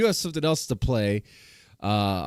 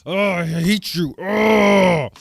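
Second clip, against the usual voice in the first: mock dramatic struggle; 3 semitones higher, 5 dB louder than usual. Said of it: "Who talks like that?".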